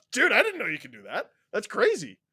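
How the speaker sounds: laughs the words out, quick and amazed; giggly, stunned delight; laughing in disbelief. Real, not acted. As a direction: laugh through it, can't believe it. Surprised by a donation, laughing.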